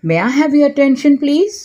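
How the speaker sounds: very slow, every word laid out clearly; slow model phrase. Shown as a demonstration. Teacher slowly models an English apology for Hindi learners. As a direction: say it slowly so learners can repeat it. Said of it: "तब आप क्या कहेंगे?".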